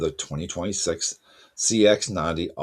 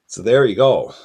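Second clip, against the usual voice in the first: emphatic wrap-up; 6 semitones higher, 11 dB louder than usual. Real, not acted. Wrapping up a section loudly.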